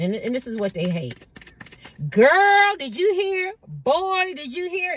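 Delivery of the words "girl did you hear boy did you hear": put-on high, loud "girl, did you hear?"; gossiping neighbour. A neighbour rushing gossip door to door, high and eager. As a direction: spread the juicy news.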